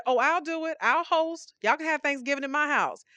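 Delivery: volunteer eagerly; eager offer. Retold or imitated. Martha offering to host Jesus, eager. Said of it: "where we said".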